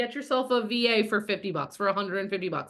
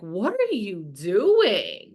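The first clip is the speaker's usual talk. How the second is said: baffled friend; 3 dB louder, much slower than usual. Retold or imitated. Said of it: "Sammy was like".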